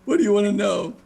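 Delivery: high, loud tearful blurting; sobbing villager begging to help; Rick, sobbing. Acted. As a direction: cry out your eagerness to confess. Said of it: "he looks at you and says".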